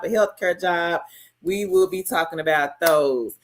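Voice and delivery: polished channel intro voice; professional voice. Real, not acted. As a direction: switch into a formal host read. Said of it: "Get in my professional voice".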